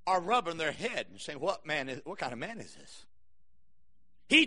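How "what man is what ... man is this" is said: awed. Acted. Awed disciples after storm.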